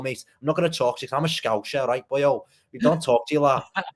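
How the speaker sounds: performed Scouse banter, taunting a rival; exaggerated Scouse accent for show; put-on Scouse. Shown as a demonstration. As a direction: talk like a proper Scouser. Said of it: "I can act like a Scouser when I want".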